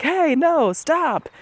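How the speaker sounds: high imitated call to stop; mock yell at dog. Imitating the owner shouting at his dog, high mock yell. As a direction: play the frazzled owner. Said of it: "He was doing what I do".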